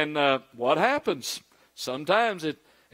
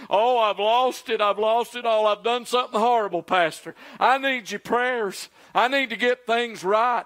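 higher, a mock tearful plea; imitating blubbering; 4 semitones higher than usual. Member in the pastor's office, a mild tearful plea. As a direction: lightly voice a weeping church member. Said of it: "blubbering and crying".

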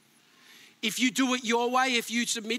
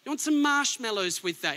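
mock coddling. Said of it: "He doesn't say".

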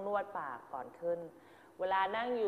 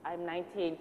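rote memorised reply; 2 semitones lower, 4 dB quieter, much slower than usual. Shown as a demonstration. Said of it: "เดี๋ยวบทเราคือ".

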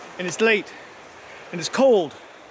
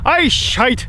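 put-on Scottish accent. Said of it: "let me do it in the accent".

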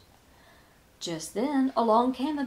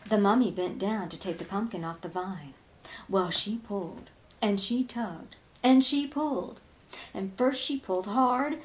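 ordinary delivery

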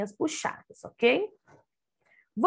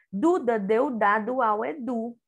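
Duda deu dado ao Edu read in one smooth flow; reading without stopping; 2 semitones higher than usual. Shown as a demonstration. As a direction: read it straight through, no pauses. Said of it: "a tia Luna vai ler, sem parar". (leitura corrida, sem parar)

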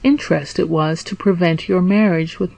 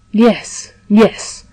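mildly eager, quick-to-agree reply; 2 semitones higher than usual. A narrator's reading. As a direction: answer with a touch of eagerness. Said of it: "replied Dantès eagerly".

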